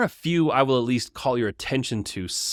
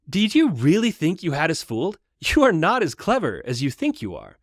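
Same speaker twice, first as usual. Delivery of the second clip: a lightly higher, youthful hobbit voice; younger-sounding Pippin; 5 semitones higher than usual. Acted. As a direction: tease him like a cheeky younger friend. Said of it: "leave Pippin sounding younger than the other hobbits".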